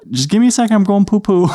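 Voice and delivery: put-on high, sing-song toddler talk; dad calling down. Dad on the toilet answering his son, high calling voice. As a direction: call out high in parent-to-child speak.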